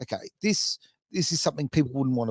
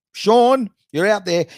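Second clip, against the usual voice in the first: calling out; 7 semitones higher, 7 dB louder, slower than usual. Retold or imitated. Mates calling out to friend.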